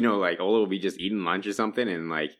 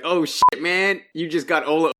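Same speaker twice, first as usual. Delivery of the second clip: excited fan; 9 semitones higher, 6 dB louder, slower than usual. Retold or imitated. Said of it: "so it'd be like".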